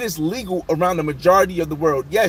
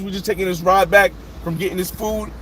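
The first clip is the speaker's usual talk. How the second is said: usual speaking voice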